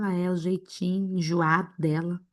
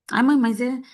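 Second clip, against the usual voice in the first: a mock whining kid, pitched higher and louder; whiny son; 4 semitones higher, 5 dB louder than usual. Mother imitating her complaining son, whiny.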